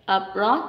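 abroad with -BROAD stressed and rising; stress on second syllable. Shown as a demonstration. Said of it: "nó sẽ có trọng âm hai".

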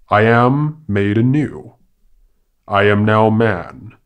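lightly voiced, self-important monkey orator; proclaiming monkey. Monkey announcing his change to the woodland animals, mildly grandiose proclamation. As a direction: proclaim it to a crowd with a mild lift.

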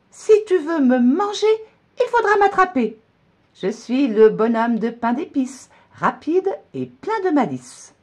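very high, loud taunting sing-song; cheeky shouting gingerbread man. A narrator's reading. Gingerbread man taunting the old woman, high and loud. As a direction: tease them as you run off. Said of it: "se met à crier".

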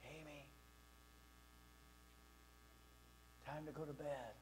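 very soft, low, distant call; hushed, gentle bedtime reminder; mother's upstairs voice. Retold or imitated. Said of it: "This voice from upstairs would go".

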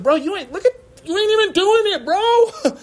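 high, fast, exasperated jab at a hypocrite; mocking call-out. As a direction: call out the talker who never does it, high and quick. Mocking preachy people.

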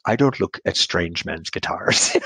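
slow, lightly imitated British accent. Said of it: "said in a very beautiful British accent".

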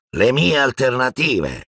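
desperate shout of disbelief. A narrator's reading. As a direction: fling the question back at him. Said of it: "gridò Malfoy".

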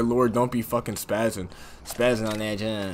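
ordinary talk, nothing marked

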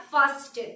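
"fasten" as FAHS-ten; wrong, t sounded. Shown as a demonstration. Teacher showing what never to say, "fasten" as FAHS-ten. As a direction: say "fasten" following the spelling, with t. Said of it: "কখনোই বলবো না".

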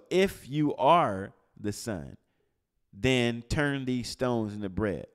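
IF YOU ARE stretched slowly and hit hard; slow, weighty challenge on "If you are"; emphatic quote. Retold or imitated. Quoting the enemy's challenge emphatically.

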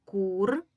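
"Кур-тка" split loudly into Кур, long pause, тка; clap-out beats on "Кур-тка"; syllable by syllable. Shown as a demonstration. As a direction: sound out two separate syllables, Кур and тка. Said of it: "Вимовимо це слово і порахуємо кількість складів".

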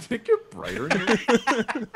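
high, slow mocking echo of a friend; mocking imitation. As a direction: parrot him in a silly high voice. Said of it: "you're like".

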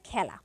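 খেলা said as "khæla"; preferred æ vowel. Shown as a demonstration. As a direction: model খেলা with an open æ. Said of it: "গ্রহণযোগ্য হচ্ছে".

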